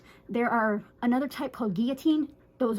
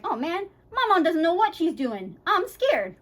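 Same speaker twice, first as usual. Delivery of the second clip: higher-pitched mock worried dog; voicing an anxious dog; 5 semitones higher, 3 dB louder than usual. Dog worrying about its unsure owner, mock scared. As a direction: play the scared pup fretting about mom. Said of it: "So then they're like".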